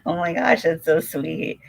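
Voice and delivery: high, touched "so sweet"; delighted gush. Real, not acted. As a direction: sound bowled over by kindness. Reacting again to the kindness.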